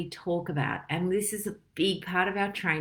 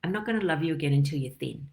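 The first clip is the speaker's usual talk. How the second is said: hushed disgust; 3 semitones lower, faster than usual. Retold or imitated. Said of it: "look at our dog and go".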